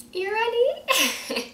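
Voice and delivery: high, slow, put-on Guyanese voice; Guyanese accent. Shown as a demonstration. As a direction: stretch it out in a thick Guyanese accent. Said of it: "read it in a straight Guyanese accent".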